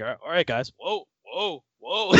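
imitating Cobra. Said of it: "he'd be like".

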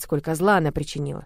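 usual speaking voice

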